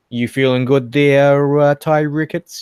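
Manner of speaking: hammed-up Boston accent; Bostonian accent. Greeting a guest after time away, imitated Bostonian accent. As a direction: put on a rough Boston accent. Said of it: "perfecting the Bostonian accent".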